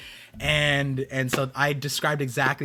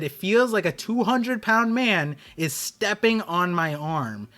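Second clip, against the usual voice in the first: slow description; 3 semitones higher, slower than usual. Retold or imitated. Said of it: "I said".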